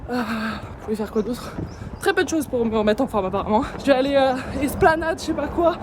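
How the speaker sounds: out of breath while jogging; talking mid-run, breathy and bumpy; while running. Real, not acted. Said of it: "je suis partie courir là".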